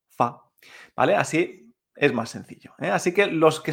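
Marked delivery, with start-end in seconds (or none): 0.1-0.4 short, unstressed "fa"; neutral tone. Shown as a demonstration. Teacher giving a toneless example, short simple "fa". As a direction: say "fa" briefly without any glide. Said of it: "sin tono".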